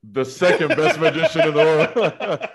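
slow, grand stage announcement; a touch of showman with a laugh; Houdini magician patter. Acted. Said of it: "you gotta act like Houdini".

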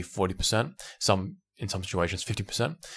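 ordinary talk, nothing marked

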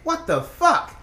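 high, pleading yo, it's an exhibition; incredulous protest. Retold or imitated. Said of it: "I was like".

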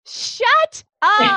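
high, delighted disbelief; can't believe it, yelped high; amazed. Real, not acted. Host hears surprising news.

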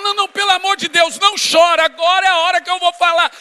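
husband begging wife not to cry, loud; pleading shout. Retold or imitated. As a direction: plead loudly, rushing.

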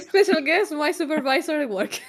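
big mock announcement, loud; announcer voice. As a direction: introduce a special guest. Announcing boss as special guest.

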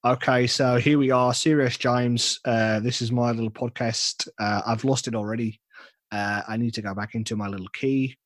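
tentative Australian podcast-host voice; Australian accent. Shown as a demonstration. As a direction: attempt an Australian accent, losing confidence as you go. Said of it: "there's my Australian accent".

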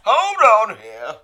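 very high, loud, drawn-out declaration; hammed-up self-important therapist; superior therapist. Mocking a superior therapist talking over clients, pompous high shout.

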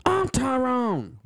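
high, drawn-out Black American introduction; mock Black American accent. Announcing himself as Tyrone, slow mock Black American accent. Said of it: "God, I love accents".

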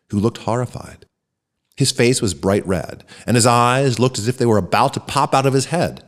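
ordinary delivery, nothing marked

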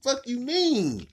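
high, loud mock outrage with laughter; imitating God. God questioning the Christian group, high laughing outrage. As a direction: squeal it like an offended God. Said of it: "He gonna say the same shit".

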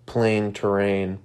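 blocked nose, a bit congested; stuffy nose. Real, not acted. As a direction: talk through a stuffy nose. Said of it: "Sorry if I sound a little stuffy".

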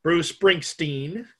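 drawn-out sing-song name announcement. Real, not acted. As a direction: stretch the name out slowly as if half singing. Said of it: "Why are you singing like that".

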